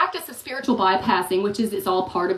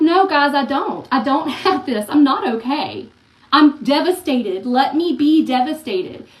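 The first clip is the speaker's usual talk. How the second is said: louder, pleading; insistent protest; 2 semitones higher, 6 dB louder than usual. Retold or imitated. Answering friends, louder and slower at devastated. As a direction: push back hard against the comfort. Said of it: "I'm like".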